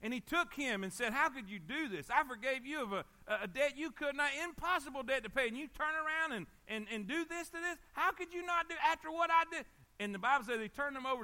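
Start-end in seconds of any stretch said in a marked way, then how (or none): 1.1-9.6 rising, incredulous reproach; acted indignant rebuke. King confronts the servant he forgave, indignantly reproachful. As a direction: play a wronged king, pitch climbing with indignation.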